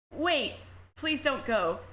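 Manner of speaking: slow, pleading, a touch of trembling fear; shaking voice. Acted. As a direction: beg her to stay like a scared child. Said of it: "Your voice is shaking like a scared child's".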